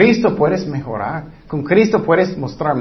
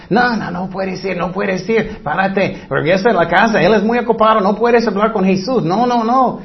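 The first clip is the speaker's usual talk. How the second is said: put-on disciples shooing children away; 3 semitones higher than usual. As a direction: brush the kids off like a busy gatekeeper.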